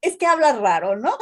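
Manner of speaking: quoting them with a laugh in the voice; laughing through the mocking quote; imitando entre risas. Imita a colegas burlones riendo. (cita burlona entre risas)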